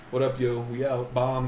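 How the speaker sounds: slang voice. Retold or imitated. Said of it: "completely legitimate set of sentences".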